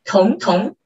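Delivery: 童, 童 as two linked upward glides; flowing rising tones. Shown as a demonstration. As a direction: let both rises of 童, 童 flow. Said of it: "Please feel the flow".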